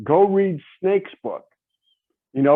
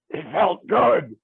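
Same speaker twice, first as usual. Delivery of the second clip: slow, deep villainous drawl; deep gravelly voice; 3 semitones higher, slower than usual. Retold or imitated. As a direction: savor each word like a villain. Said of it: "with that deep, gravelly voice".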